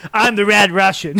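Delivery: mock Russian wrestler accent, loud and proud; hammed-up Russian accent. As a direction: announce yourself in a cartoon Russian accent. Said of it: "like, a Russian accent".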